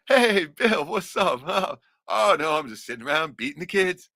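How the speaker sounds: breezy as if nothing's going on; father joking to Bill on the phone, all friendly; jovial phone voice. Retold or imitated. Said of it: "Two different fucking speaking voices".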